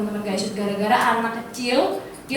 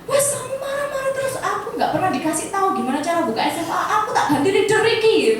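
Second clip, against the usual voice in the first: fed-up retort; 6 semitones higher than usual. Retold or imitated. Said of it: "Langsung saya bilang gini".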